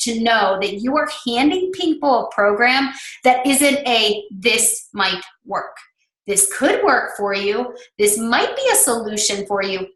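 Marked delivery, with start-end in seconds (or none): 4.3-9.9 mock hesitant. Mocking a hesitant, hedging pitch.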